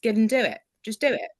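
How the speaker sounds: lightly upbeat self-motivation; proactive, positive voice. Shown as a demonstration. Client showing how she reframes the stern parent, proactive and positive. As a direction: nudge yourself to get on with it. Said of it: "it's a proactive, positive voice".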